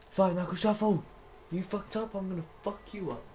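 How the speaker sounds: high, excited taunting; hyped trash talk. Real, not acted. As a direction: gloat over the rival.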